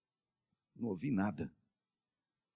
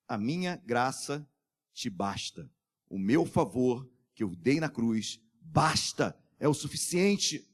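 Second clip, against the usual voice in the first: gentle voice of God; 6 semitones lower, slower than usual. Acted. Voicing God's gentle answer.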